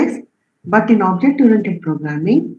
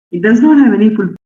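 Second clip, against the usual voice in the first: louder and quicker, insisting; firm emphatic correction; 2 semitones higher, 5 dB louder, faster than usual. Real, not acted. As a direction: set them straight, fast and firm. Teacher stressing a correction.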